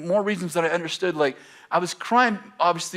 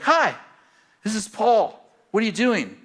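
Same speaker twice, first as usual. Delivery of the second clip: cheery caller; 7 semitones higher, 3 dB louder than usual. Retold or imitated. Friend's cheery early phone call.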